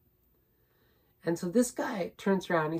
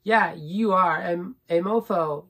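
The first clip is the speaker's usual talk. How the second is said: loud, slow, spitting out the insult; louder and slower, biting off each word at the driver; loud retorted insult; 5 dB louder, slower than usual. Retold or imitated. Talking back to the cab driver, loud slow insult. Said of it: "And I was like".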